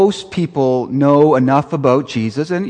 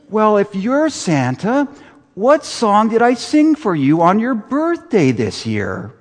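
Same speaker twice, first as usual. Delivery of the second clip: Buddy the elf; 8 semitones higher than usual. Retold or imitated. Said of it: "Here's Will Ferrell".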